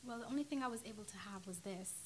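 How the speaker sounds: softly spoken English accent. Shown as a demonstration. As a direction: answer in an English accent, unhurried. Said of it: "Your English accent?".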